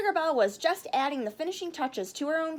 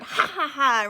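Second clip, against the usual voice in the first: snickering; 6 dB louder than usual. Acted. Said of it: "Mister Fudge snickered".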